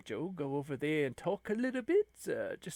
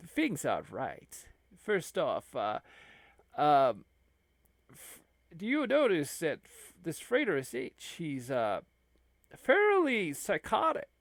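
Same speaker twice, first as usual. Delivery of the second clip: a slow, lowered voice; abbot's voice. Acted. Abbot questions Curly Joe.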